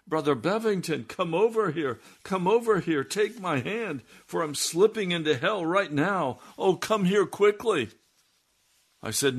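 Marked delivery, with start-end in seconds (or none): 0.0-7.9 very high, loud, urgent calls for help; a man who thinks he is slipping into hell calls to the preacher; panicked crying out. Retold or imitated. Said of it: "Then he cried out".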